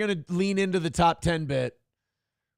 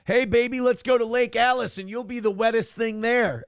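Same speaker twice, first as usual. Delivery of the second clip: hammy come-on pitched up; mock catcall; 5 semitones higher than usual. Host rewriting the catcall, hammed up. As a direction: oversell the sleazy line.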